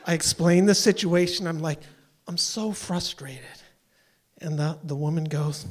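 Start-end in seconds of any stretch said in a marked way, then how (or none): 2.3-3.6 slow, soft, contained frustration; trying to stay calm. Retold or imitated. Caller explaining the situation once more, forcing calm. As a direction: hold the frustration down, drawn out. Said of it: "I'm trying to be really calm".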